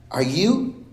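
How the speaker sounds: high, breathless fangirl question; excited fan girl. Retold or imitated. White girl fan gushing at him. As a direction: gush up at the star.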